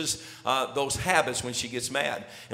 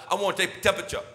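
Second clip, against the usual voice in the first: imitating his son; much faster than usual. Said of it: "and he said".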